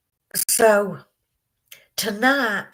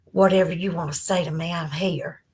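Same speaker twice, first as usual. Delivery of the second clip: tender comfort; 2 semitones lower than usual. Real, not acted. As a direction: gently hold her up with the words. Comforting a viewer who is hurting.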